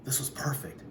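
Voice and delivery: soft secret whisper. Acted. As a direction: whisper it like a plan. Boy plotting quietly.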